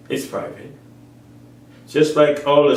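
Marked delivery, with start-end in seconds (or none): 0.1-0.7 whispered aside; soft unvoiced whisper. Real, not acted. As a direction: breathe it softly as a secret. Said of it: "whispered aside".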